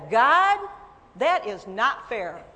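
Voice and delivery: complaining loudly to God; retold angry protest. Wife protesting to God about husband's hunt, loud complaint. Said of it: "I was so angry".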